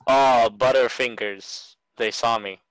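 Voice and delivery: put-on slow wholesome kid voice; wholesome 1950s kid. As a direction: say it like an innocent old-timey kid.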